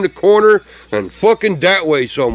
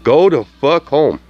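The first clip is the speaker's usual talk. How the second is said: laughing. Real, not acted. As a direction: Go to fuck home through laughter. Repeats line while laughing.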